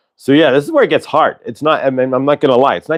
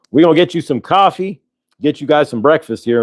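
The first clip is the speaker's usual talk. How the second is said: higher-pitched mock Southern lawman; Southern cop; 4 semitones higher than usual. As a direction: play a folksy Southern cop. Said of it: "Bubba cop".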